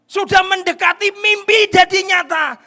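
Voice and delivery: high, loud, slow proclamation; shouted preaching. Acted. Preacher crying out that the dream is near, slow shouted. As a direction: stretch out the cry. Peak of Joseph's story.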